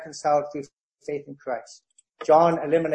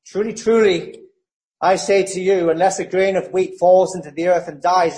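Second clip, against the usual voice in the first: louder, fervent scripture read; proclaiming scripture; 4 dB louder than usual. Acted. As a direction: preach the verse with conviction. Reads Jesus' words at full force.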